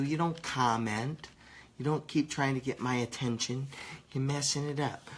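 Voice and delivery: 1 annoyed scolding. Real, not acted. Scolding commenter interrupting review.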